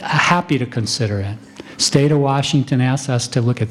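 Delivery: calmly receptive physician; calm doctor. Shown as a demonstration. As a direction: stay calm and welcoming with no hint of irritation. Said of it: "We just train our doctors to very calmly say".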